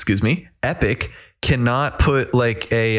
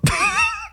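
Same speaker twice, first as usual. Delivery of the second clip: embarrassed high giggle. Real, not acted. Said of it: "I don't know what just possessed me".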